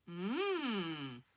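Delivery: long hum that rises and falls; pondering hum. A narrator's reading. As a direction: hum while thinking it over. Witch considers the spell.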